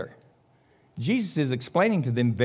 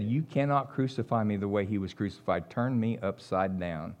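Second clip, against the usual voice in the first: humble plea; 8 semitones lower, 6 dB quieter than usual. Acted. Preacher voicing Peter asking his executioners to crucify him upside down, soft and humble. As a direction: say it quietly, head bowed in humility.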